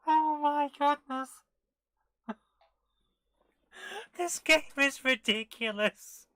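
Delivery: loud, high, drawn-out disbelief; astonished exclamations. Real, not acted. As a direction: cry out at the absurdity, slowly. Amazed by absurd game.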